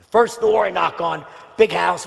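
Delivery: ordinary delivery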